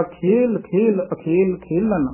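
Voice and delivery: ਖੇਲ said a little heavily and slowly; measured, weighty ਖੇਲ ਖੇਲ ਅਖੇਲ ਖੇਲਨ; slightly weighty. Shown as a demonstration. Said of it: "ਥੋੜਾ ਜਿਹਾ ਭਾਰਾ ਜਿਹਾ ਬੋਲਿਆ ਜਾਏਗਾ".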